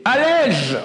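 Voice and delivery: high sharp mock order; mock command. Rabbi voicing the call to stop studying, high mock command. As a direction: bark it as the tempter would.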